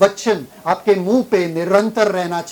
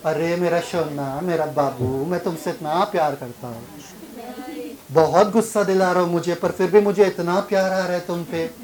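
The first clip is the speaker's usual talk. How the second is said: teasing tender voice, softer and lower; lovingly; 3 semitones lower, 4 dB quieter than usual. Retold or imitated. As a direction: coo it sweetly like to a darling child. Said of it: "प्यार से".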